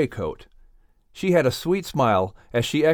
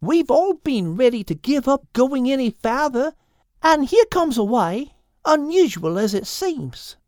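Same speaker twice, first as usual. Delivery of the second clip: Quilpie the platypus; 7 semitones higher than usual. Acted. Quilpie adds hope.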